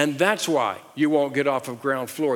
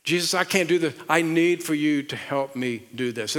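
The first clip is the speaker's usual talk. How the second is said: pleading prayer. Pretend. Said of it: "you're gonna say".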